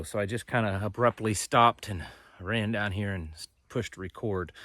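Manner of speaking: breathless after hard work; out of breath. Real, not acted. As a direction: talk while catching your breath. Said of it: "bear with me on the, the breathing and, and exhaustion".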